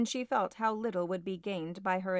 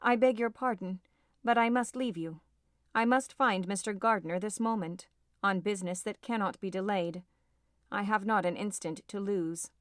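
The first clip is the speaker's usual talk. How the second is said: ordinary delivery, nothing marked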